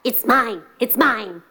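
growly yapping dog voice; storybook dog. Acted. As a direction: yap the claim like a dog. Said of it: "The dog".

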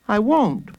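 put-on high, small child voice; high-voiced kid's denial; protesting little boy. A narrator's reading.

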